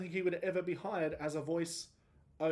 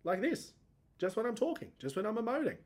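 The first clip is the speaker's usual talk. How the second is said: voice breaking; 8 semitones higher than usual. Shown as a demonstration. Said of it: "my voice breaks. Like this".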